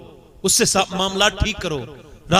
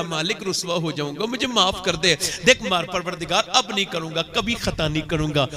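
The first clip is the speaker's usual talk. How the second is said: pleading sinner; 2 semitones lower, 5 dB quieter than usual. Acted. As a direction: beg forgiveness quietly. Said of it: "वो फिर बोला". (धीमी, नीची आवाज़ में गिड़गिड़ाना)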